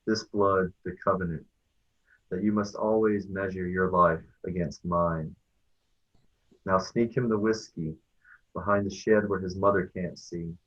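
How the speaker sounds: measured, deliberate poetry reading; unhurried recital with weighted line endings; poem reading. Acted. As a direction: read it as a solemn poem, pausing after each phrase. Reads own poem aloud.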